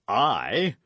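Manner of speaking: startled, alarmed question; startled cry. A narrator's reading. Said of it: "cried Athos, with an accent like".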